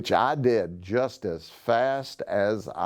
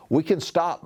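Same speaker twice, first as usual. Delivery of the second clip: calling out from ahead; 5 semitones higher than usual. Acted. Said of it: "Miles yelled from farther up".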